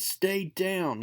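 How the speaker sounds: Spider-Man ordering the Hobgoblin to stay down, stern. Acted. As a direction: pin him with words.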